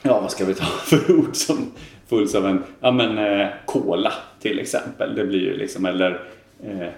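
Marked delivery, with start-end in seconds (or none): 3.7-4.1 "cola" opening on a hard k. Shown as a demonstration. Guest giving example of hard-vowel rule, hard K in "cola". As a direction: say "cola" with plain K. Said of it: "då blir det K-ljud".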